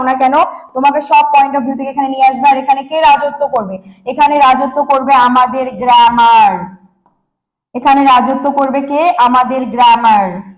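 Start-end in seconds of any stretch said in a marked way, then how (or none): 4.1-10.5 slow, drawn-out announcement; emphatic proclamation. Real, not acted. Teacher proclaiming to students that grammar will rule, slow and emphatic. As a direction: stretch it out slowly for weight.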